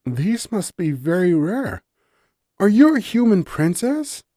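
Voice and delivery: earnest question. A narrator's reading. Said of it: "Nerium asked with honesty".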